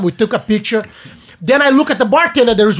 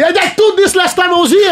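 higher, laughing admission; 8 semitones higher than usual. Real, not acted. Admitting to friends he retold the story, laughing. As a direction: own it with a laugh.

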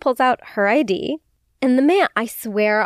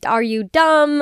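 exasperated jab; 5 semitones higher, slower than usual. Retold or imitated. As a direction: fire it back in disbelief. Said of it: "I mean, she didn't say".

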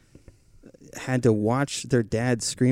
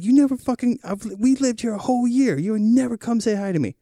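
angry neighbor; 11 semitones higher than usual. Retold or imitated. Retelling the neighbor's rant about never saying hi, high and heated. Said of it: "He was like".

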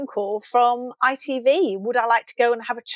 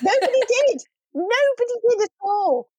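higher, amused laughing reply; 12 semitones higher than usual. Real, not acted. Guest laughing to host about the show's chaos. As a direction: laugh it out in agreement.

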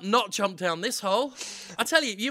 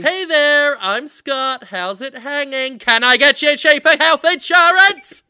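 mock robocaller; 6 semitones higher, 8 dB louder than usual. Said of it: "robocall pitch after robocall talk".

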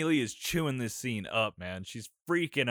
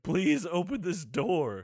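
mock pleading; 5 semitones higher, slower than usual. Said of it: "begging for dear God".

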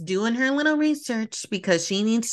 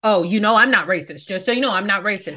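mocking white people. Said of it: "they are trying to be like".

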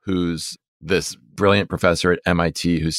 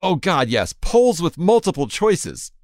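mock passion; 11 semitones higher than usual. Mock passion at chatbot's features.

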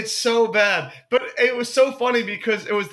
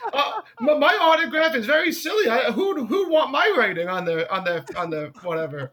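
put-on British modesty that falls apart; a singer; 3 semitones higher than usual. Singer dismissing his own autograph, high voice sinking as it fails. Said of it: "this is my impression".

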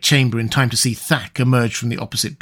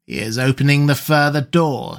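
gloating sorcerer Nabonidus. Acted. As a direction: gloat over the slaughter like a fiend.

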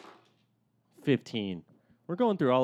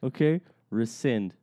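beat poetry. Pretend. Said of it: "I feel like we're getting into a beat poem".

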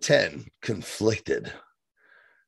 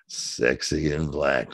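slow admiring; 9 semitones lower, much slower than usual. Real, not acted. Admiring comment.

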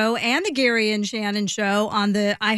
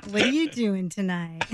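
sexy voice; 5 semitones lower, 3 dB quieter than usual. Pretend. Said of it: "It's a come on".

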